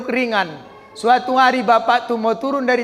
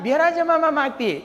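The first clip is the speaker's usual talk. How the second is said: sulky wife; 4 dB quieter than usual. Retold or imitated.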